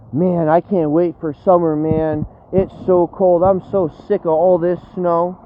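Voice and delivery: mocking a chaser who posts about the cold, in a whiny voice; mock whiny complaint. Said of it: "you type your stupid shit about".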